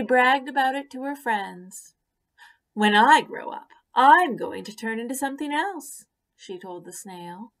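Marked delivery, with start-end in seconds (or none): 2.7-6.1 proud bragging caterpillar. Acted. Proud caterpillar brags to friends.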